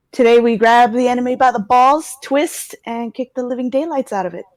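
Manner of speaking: rally the troops, rising to a roar; roaring rallying speech. Acted. Tommy's rallying speech to pack.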